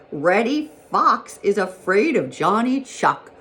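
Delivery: high, loud, drawn-out jeer; gleeful rabbit calling out the news; shouted taunt. A narrator's reading. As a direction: crow it slowly across the meadow. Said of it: "shouted Peter Rabbit".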